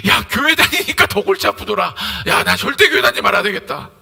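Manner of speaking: loud, fed-up complaint; acted exasperation. Non-believer swearing off church, acted exasperation. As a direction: complain forcefully, playing the disillusioned listener.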